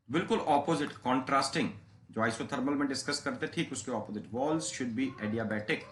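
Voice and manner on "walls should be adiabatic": slow, spaced dictation for notes; dictating a condition word by word. Shown as a demonstration. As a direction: spell it out slowly for students to write. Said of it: "repeats dictation".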